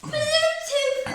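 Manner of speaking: slow, high device voice; robot announcer voice. Retold or imitated. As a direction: copy the speaker's announcement. Kid imitates speaker's announcer voice.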